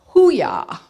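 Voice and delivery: loud, high Navy hoo-yah; gung-ho Navy call. Retold or imitated. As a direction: call it like a sailor. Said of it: "Navy actually now says".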